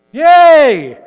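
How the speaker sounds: a sudden high, loud "Yay!"; mock cheer. Preacher mock-cheers the command to be angry, excited. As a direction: cheer it like great news, tongue in cheek.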